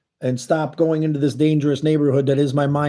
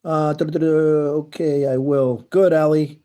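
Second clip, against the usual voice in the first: talking with food in mouth; mouth full; slower than usual. Real, not acted. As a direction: speak around a mouthful. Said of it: "keep talking with food in your mouth".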